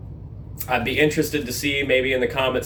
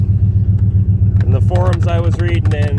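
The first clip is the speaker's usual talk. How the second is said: raised voice over engine; 2 semitones higher, 8 dB louder than usual. Real, not acted. Speaking over the running engine.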